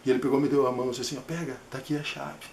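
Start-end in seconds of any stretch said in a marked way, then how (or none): 1.2-2.5 much softer, near-whispered handoff; conspiratorial soft voice; hushed. Retold or imitated. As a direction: play along in a secret hush. Handing over pretend key.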